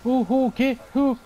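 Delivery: high, loud startled stammer. Real, not acted. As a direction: blurt it out in alarm. Alarm during fight.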